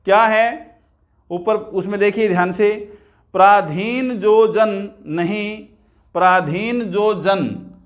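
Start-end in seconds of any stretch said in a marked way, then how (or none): 3.3-7.7 slow measured verse, stopping after "प्राधीन जो जन"; pause after जन. Shown as a demonstration. Teacher reading a verse to mark the comma, pause after जन. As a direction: draw out जन and halt as at a comma. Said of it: "यति आ गई, comma आ गया".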